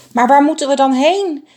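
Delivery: high, loud panicked cry; calling out. A narrator's reading. A frightened bird cries out to the flock, high and loud. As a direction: call out in alarm across the tree. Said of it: "riep er een".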